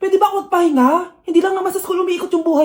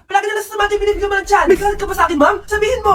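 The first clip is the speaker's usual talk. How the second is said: angry outburst; 3 semitones higher, faster than usual. Acted. Student accusing teacher of favoritism.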